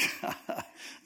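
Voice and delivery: low breath of mock laughter; brief unconcerned chuckle; acted laugh. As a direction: laugh it off as Samson would. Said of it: "he's like".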